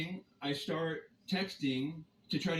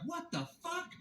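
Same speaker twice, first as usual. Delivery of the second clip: retold disbelief; 13 semitones higher, 7 dB quieter than usual. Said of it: "I'm like".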